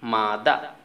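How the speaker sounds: মা দা in two separate parts, open "dah"; British silent r. Shown as a demonstration. Teacher giving English for mother, মা দা without r. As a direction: say মা দা with no final r. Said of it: "ঠিক ওরকম".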